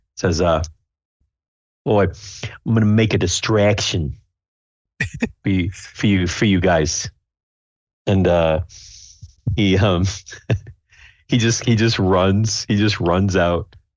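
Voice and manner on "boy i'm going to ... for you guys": bad, sloppy, fake East London Cockney accent. Narrating the scene, the speaker gives Cosgrave's line to his companions: Cosgrave's awful Cockney accent. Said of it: "East London Cockney accent that's not correct".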